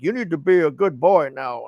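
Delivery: growling Venom voice; monster voice. Retold or imitated. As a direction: menace them like a beast. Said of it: "he's like".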